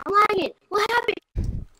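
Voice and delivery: rising frustrated whine about lag; hyped gamer bro. Real, not acted.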